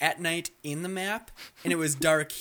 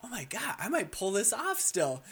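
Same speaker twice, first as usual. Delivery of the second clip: excited hope; 5 semitones higher than usual. Retold or imitated. Excited hope during the chase.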